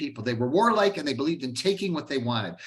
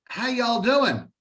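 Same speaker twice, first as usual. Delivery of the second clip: higher-pitched Southern drawl greeting; Southern accent; 5 semitones higher, 3 dB louder, slower than usual. Acted. Teacher voicing an Abenaki visitor greeting the settlers, Southern accent. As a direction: put on a folksy Southern accent. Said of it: "said it with a Southern accent".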